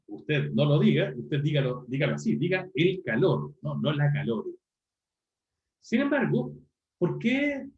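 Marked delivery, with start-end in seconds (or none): 0.1-4.5 a touch of a stern corrector, slowed; mock prescriptive. Teacher mimicking purists who correct la calor, mild. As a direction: lightly mimic a strict language purist. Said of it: "Y que debería ser".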